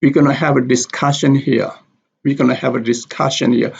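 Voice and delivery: "discussion" stressed on "cuss", "here" also stressed. Shown as a demonstration. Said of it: "The stress is on the word discussion".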